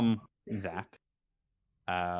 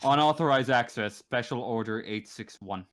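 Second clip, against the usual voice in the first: repeating to be heard. Real, not acted. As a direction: repeat it up front for someone who missed it. I was cut out.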